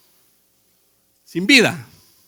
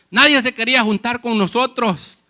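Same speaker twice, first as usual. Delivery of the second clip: building preaching; 2 semitones higher, 5 dB louder than usual. Acted. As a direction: swell into the turn of the sermon. Sermon building to climax.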